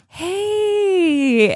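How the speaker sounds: high, crying little hey; tearful hey. Retold or imitated. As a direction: mimic a weepy teary hey. Imitating tearful Bella close-up.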